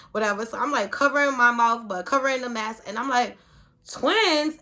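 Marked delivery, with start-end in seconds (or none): 3.9-4.6 loud high shocked cry; shocked exclamation. Retold or imitated. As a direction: blurt it out in shock. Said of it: "And I screamed it out".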